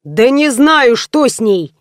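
mildly irritated outburst; annoyed on the phone, lightly voiced; a touch of anger. Semyon complaining to the tow service, mildly angry. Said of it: "злился Семён".

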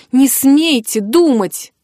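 a firm, slow put-down; cutting her off firmly. Acted. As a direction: slam the words down to end it. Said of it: "припечатала Мари".

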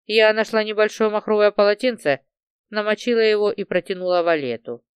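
usual speaking voice

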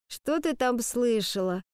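slow drowsy question; lazy half-awake asking; sluggish. Acted. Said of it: "вяло спросила Скарлетт".

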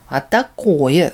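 slow, mocking retort; spiteful mimicry. Demon mocks the old man, spiteful. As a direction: drag it out nastily. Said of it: "злобно передразнил псих".

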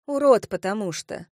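curt, mildly spiteful snap; angry retort. Acted. Redhead answers her tipsy friend, crossly. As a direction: throw it out crossly. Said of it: "зло бросила рыжая".

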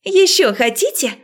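taunting. A narrator's reading. Witch taunts dean.

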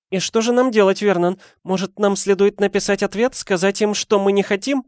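high, worried pleading; anxious pleading. A narrator's reading. Petunia to Vernon, high anxious plea. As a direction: beg him for a plan.

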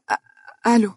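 hesitant, broken-off start to answering. A narrator's reading. Dunya answers a call woken from sleep, hesitant. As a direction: answer the phone unsurely. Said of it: "وأجابت بتردد".

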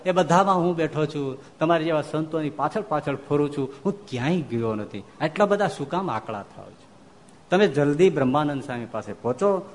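a hint of a gentle, loving master; Maharaj consoling. Storyteller voices Maharaj consoling.

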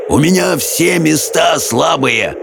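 high, drawn-out exclamation; shouting. A narrator's reading. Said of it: "крикнул Хоул". (протяжный выкрик)

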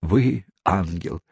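slow, tender declaration. Acted. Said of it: "сказал мистер Тапман".

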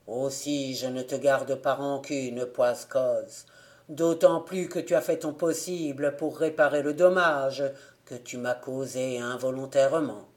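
a dead man letting go of a grudge; forgiving ghost. Acted.

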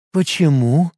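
insistent question; demanding. Acted. Liga demanding an answer from Ит, a mild insistent question. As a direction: press her for the answer. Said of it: "требовательно спросила Лига".

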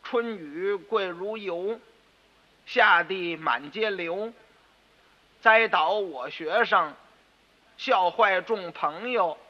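measured, slow chanting of the poem; a boy slowly recites his poem to his father; slow poem recital. Acted. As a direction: recite each line slowly, like a schoolboy. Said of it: "嗯，我说".

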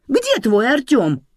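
loud, high, drawn-out demand; slow, high, confrontational question; angry challenge. Acted. Mother challenges daughter in quarrel.

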